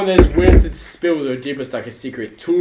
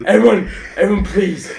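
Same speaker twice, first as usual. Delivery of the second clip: trying not to laugh; 3 semitones higher than usual. Real, not acted. Laughing while pleading.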